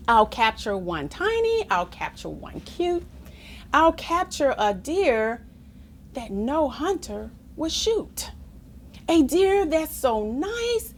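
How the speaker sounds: put-on lively sing-song reading of a rhyming children's poem. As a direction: bounce the rhymes like a storybook read aloud. Reads a rhyming poem aloud.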